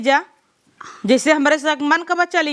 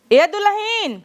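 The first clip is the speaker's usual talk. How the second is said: higher-pitched call to get her attention; 6 semitones higher, slower than usual. Acted. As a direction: call over to the sister-in-law, pitched up. Calling out to sister-in-law.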